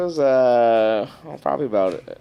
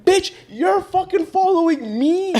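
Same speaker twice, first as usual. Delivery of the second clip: much higher retort breaking into laughter; laughing retort; slower than usual. Retold or imitated. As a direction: laugh through the comeback. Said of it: "I was like".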